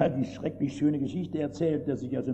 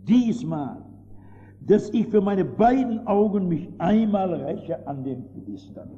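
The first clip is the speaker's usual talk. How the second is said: loud, pleading cry of "Herr, Herr"; Samson's cry to God; 3 semitones higher, 6 dB louder, slower than usual. Acted. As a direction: call out to God in need. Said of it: "und sprach".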